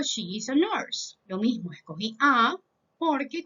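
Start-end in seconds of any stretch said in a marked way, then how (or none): 0.0-1.2 slow model sentence. Shown as a demonstration. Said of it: "y digo".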